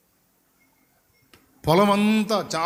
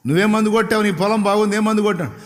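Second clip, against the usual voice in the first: insistent questioning; 5 semitones higher, faster than usual. Retold or imitated. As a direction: press her for the answer. Officials question the old woman.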